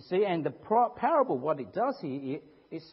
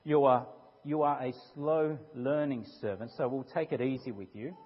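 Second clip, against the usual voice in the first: gentle; 3 semitones lower than usual. Retold or imitated. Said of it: "Not just".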